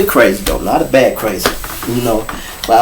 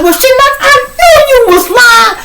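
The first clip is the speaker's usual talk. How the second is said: high mock woman; 4 dB louder than usual. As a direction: drag it out in her voice. Woman voiced.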